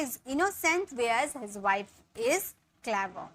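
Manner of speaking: slow, clear dictation; slow model sentence. Shown as a demonstration. Teacher dictating the translation slowly. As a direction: stretch it for students to follow. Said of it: "वह भोला है जबकि".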